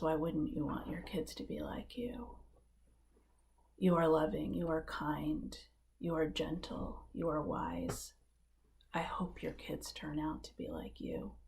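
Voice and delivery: hushed, whispered and tender; tearful. Retold or imitated. Woman answering Mario from the audience, tearful whisper. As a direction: speak through tears, gently. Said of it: "now it's her turn to cry".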